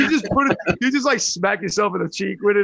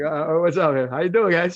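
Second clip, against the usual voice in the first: mic on the side; 5 dB louder than usual. Shown as a demonstration. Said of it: "I should just put it on the side like this".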